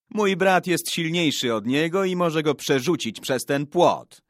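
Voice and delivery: put-on boyish threats. A narrator's reading. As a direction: brag loudly to intimidate the rival. Boys boast about older brothers. (chłopięce przechwałki podniesionym głosem)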